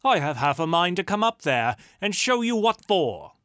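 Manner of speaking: loud, high, playful threat; shouted threat. A narrator's reading. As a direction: holler it up at a cheeky rival. Mock threat shouted up to hayloft.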